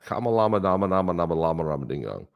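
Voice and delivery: singsong nonsense name; silly rhyming patter. Pretend. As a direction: roll the rhyming syllables along playfully. Silly rhyming nickname strung out.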